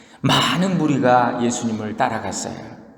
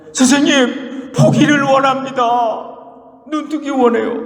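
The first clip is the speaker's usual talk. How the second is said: pleading beggar; 10 semitones higher, 5 dB louder than usual. Acted. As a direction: beg to see, stretching each word. Blind beggar pleads with Jesus.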